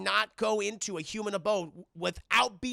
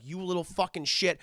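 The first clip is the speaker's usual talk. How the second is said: upset mother; 9 dB louder than usual. Retold or imitated. Mother rages at the boy who ruined her night, upset. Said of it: "She's very upset".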